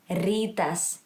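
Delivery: rytas with a rolled R at the start. Shown as a demonstration. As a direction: roll the first R of rytas. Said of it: "we also roll our R's".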